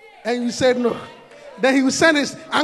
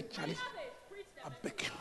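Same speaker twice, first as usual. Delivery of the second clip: pleading; 22 dB quieter than usual. Acted. Rejecter pleading.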